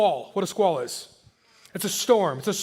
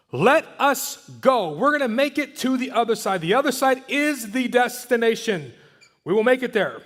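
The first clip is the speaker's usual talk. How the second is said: confident declaration; 3 semitones higher than usual. Retold or imitated. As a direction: declare it like a sure promise. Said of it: "He's declaring something".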